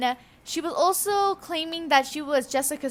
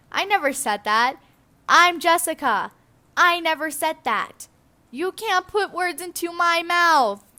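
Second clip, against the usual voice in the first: loud, higher, outraged denial; indignant protest; 5 semitones higher, 6 dB louder than usual. Real, not acted. Protests words put in her mouth.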